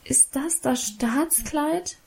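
put-on a child's crushed, accusing question; disappointed, reproachful. A narrator's reading. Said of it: "fragte ich enttäuscht und vorwurfsvoll". (enttäuscht und vorwurfsvoll, leise und langsam)

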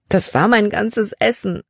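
tearful. Acted. Libby answering Caleb, starting to cry. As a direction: say it as the tears start. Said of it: "Plötzlich begann Libby zu weinen".

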